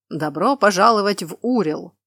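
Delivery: loud welcome falling at the end; loud herald welcome. Acted. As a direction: proclaim it and close it down.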